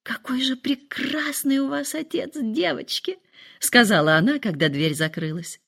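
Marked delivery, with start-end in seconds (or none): 0.0-3.2 шёпот. A narrator's reading. Шепчет дочерям после ухода мужа.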